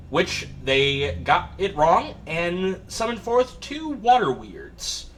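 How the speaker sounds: storyteller recap of last session; game master recap. Acted. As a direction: set the scene as a game master.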